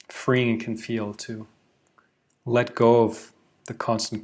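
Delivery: measured meditation guide with long pauses; unhurried, evenly paced mindfulness instruction; guided meditation. Acted. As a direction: guide listeners in, phrase by phrase, letting each settle.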